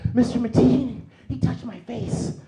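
put-on high, loud, whining child; whiny tattletale kid. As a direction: nag the teacher like a persistent little tattletale.

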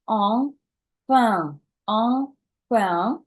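"enfin" with both vowels nasal. Shown as a demonstration. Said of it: "тут два носових".

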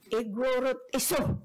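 "Igorot" with the first part pressed; stress on first part. Shown as a demonstration. Lecturer quoting Ilocano perception, "Igorot" stressed at the front. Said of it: "with the emphasis on the first word".

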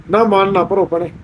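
soft, soothing reassurance; gentle consoling. Real, not acted. Host to crying sister, gently consoling. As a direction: hush someone in tears tenderly.

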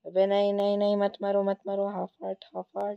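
high, rapid-fire begging for mercy; panicked pleading. Real, not acted. Losing player begs attacker to spare half a heart, panicked pleading. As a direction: plead urgently, repeating yourself in panic.

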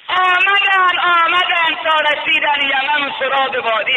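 high, loud preacher's cry; impassioned pulpit chant; full-force preaching. Acted. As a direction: lift the story into a sermon cry.

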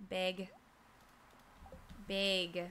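"bag" said like "beg"; trying the other vowel. Shown as a demonstration. Streamer testing the word for chat, "bag" as "beg". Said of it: "Now I can't stop saying it".

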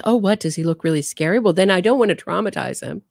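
high, quick fake concern; mock concerned mother. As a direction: play her backpedalling, all innocence. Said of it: "And she says".

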